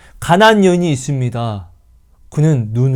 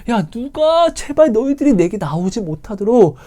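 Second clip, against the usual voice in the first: higher, pleading, fading at the end; God tired of his people; weary God; 9 semitones higher than usual. Acted. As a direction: plead to be left alone, exhausted. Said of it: "말라기는 뭐라고 이야기하죠".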